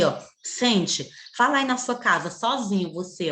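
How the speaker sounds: ordinary talk, nothing marked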